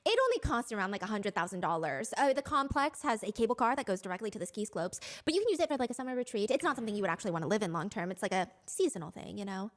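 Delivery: breezy humblebrag. Pretend. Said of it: "And I told her".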